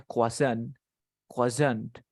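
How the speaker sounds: croissant said "kwa-san", with no R; French-style croissant. Shown as a demonstration. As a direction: model croissant as two syllables, "kwa-SAN". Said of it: "esto se pronuncia". (croissant pronunciado "cuasán", a la francesa)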